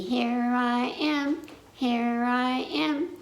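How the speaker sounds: lightly voiced piglet; piggy voice. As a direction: answer as the little pig. Piggy answers in game.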